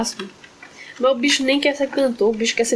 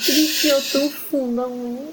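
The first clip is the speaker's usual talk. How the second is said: whispered through pain, voiceless; 3 semitones higher than usual. Real, not acted. Telling how the cat dug its claw in, pained whisper.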